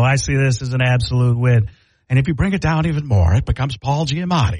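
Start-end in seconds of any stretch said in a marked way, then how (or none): 0.0-1.7 airy Hulk-style delivery; sincere breathy declaration; Mark Ruffalo. Retold or imitated. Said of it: "it becomes Mark Ruffalo".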